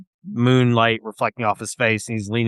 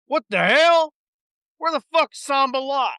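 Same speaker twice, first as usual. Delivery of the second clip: much higher, startled cursing; captain finding Sambalat missing from the boat; shocked pirate captain; 14 semitones higher than usual. Acted. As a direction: blurt it out, angry and surprised.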